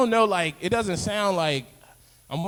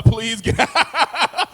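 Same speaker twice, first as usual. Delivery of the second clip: firm mock request; 9 semitones higher, 7 dB louder, much slower than usual. Telling neighbour to leave.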